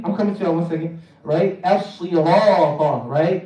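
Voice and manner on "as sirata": "As-sirata" slowly, with full rounded ra; heavy ra. Shown as a demonstration. Teacher modelling for a learner, slow "As-sirata" with heavy ra. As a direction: thicken and hold the ra in "As-sirata". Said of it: "make sure the ra is heavy".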